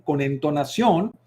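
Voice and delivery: "entonación" lifted and lingered on; intonation demo. Shown as a demonstration. Speaker showing students intonation on "entonación", melodic stress. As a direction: sing out "con entonación" with melody. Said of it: "Fíjate cómo lo acabo de decir".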